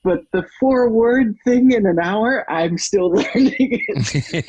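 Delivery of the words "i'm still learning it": laughing. Real, not acted. Laughs mid-line.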